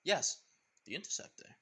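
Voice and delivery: lightly voiced pirate captain; a hint of a grand pirate; Jack Sparrow voice. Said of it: "the man saying".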